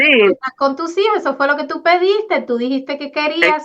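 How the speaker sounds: a hint of a divine voice reminding her; Holy Spirit speaking. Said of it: "pienso que el Espíritu Santo fue que te recordó".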